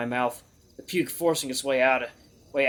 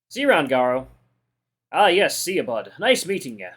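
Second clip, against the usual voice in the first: louder, casual farewell across the bar; hearty goodbye; 6 dB louder than usual. Acted. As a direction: toss out a friendly loud goodbye. Characters exchange goodbyes at the bar.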